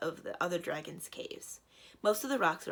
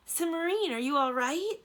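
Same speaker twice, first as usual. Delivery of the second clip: high, loud call down a slope; worried friend calling down a dusty slope; 11 semitones higher, 7 dB louder than usual. A narrator's reading. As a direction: shout down to a friend below.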